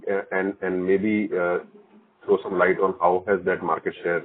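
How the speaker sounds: muffled voice, hard to hear. Real, not acted. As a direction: speak as if through a covered mouth.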